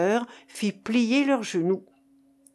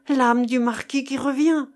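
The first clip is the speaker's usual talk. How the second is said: higher-pitched, fearful suggestion; alarmed; 4 semitones higher, 4 dB louder than usual. Acted. Keinec fears the dead marquis's soul returns, alarmed. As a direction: say it with rising alarm. Frightened men hear coffin's metallic sigh.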